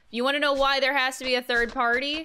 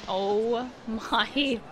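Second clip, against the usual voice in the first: surprised shout; much slower than usual. Real, not acted. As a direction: burst out in surprise.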